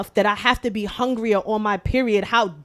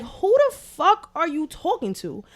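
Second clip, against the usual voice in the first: inner outrage; 6 semitones higher than usual. Retold or imitated. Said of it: "that's all that was going in my".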